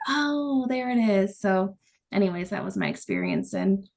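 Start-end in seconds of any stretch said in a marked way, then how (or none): 0.1-1.4 higher, drawn-out "Oh" of recognition; light reenacted moment of discovery; retold realisation. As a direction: act out suddenly spotting it. Retells spotting the third penguin.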